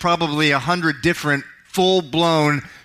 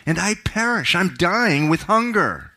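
desperate plea; 6 semitones higher than usual. Acted. Son voiced in desperation.

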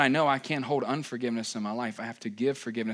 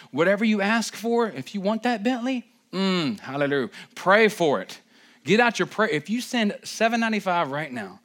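raised, loud huckster-preacher pitch; mock televangelist; 4 semitones higher, 3 dB louder than usual. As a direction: hawk a miracle prayer cloth like a hammed-up TV preacher. Parody of a prayer-cloth televangelist pitch.

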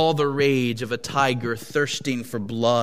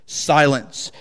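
louder snapped command; enraged husband silences his wife with a shout; 5 dB louder than usual. Acted. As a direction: cut her off hard. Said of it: "shouted the enraged husband".

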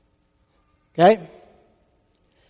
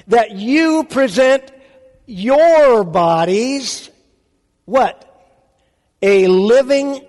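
each word drawn out slowly; slow deliberate scripture reading; slow emphatic reading; much slower than usual. Shown as a demonstration. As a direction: lean on every word of the verse. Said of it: "let's change how we put the emphasis".

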